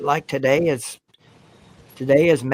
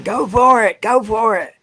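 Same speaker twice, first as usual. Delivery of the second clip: high, loud re-enacted yell at the game; retold screaming; 9 semitones higher, 6 dB louder than usual. Fan screaming at South Carolina on fourth down, retold yell. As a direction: yell it like a fan urging the team on. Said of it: "me and Jackpot were both screaming".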